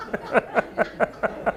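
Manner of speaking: soft rhythmic chuckle; quiet, voiceless run of laughs; laughing. Real, not acted. Host after praising his own line, laughing.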